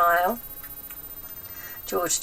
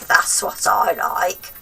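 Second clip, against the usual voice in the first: relishing whisper; 6 dB louder, slower than usual. A narrator's reading. Grandma savouring.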